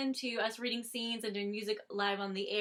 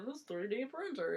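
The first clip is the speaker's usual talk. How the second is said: lightly voiced mock husband; a hint of a silly quoted voice; put-on husband voice; 5 dB quieter than usual. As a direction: imitate a husband going on about his gadget. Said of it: "why I gave him that voice".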